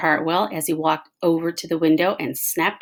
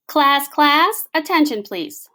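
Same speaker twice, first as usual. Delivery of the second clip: high, loud call for attention, fading on please; calling a class; 9 semitones higher, 5 dB louder, slower than usual. Acted. Principal quieting the class, calling out. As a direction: call the room to order.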